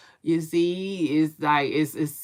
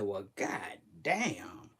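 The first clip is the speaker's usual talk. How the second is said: mock stunned reaction; 10 semitones lower, 9 dB quieter, slower than usual. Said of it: "I said".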